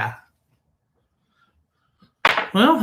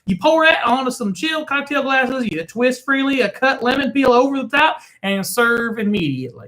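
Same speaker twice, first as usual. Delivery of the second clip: lightly voiced Indian accent read, higher; playful Indian accent ad read; mock Indian accent; 8 semitones higher than usual. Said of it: "It sounds like you were trying to do, be Indian".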